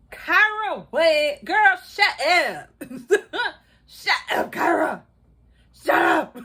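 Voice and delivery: laughing, loud "shut up" at Kyra; giggling scolding of a gushing friend; laughing tease. Real, not acted. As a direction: laugh through the teasing. Teasing Kyra while laughing.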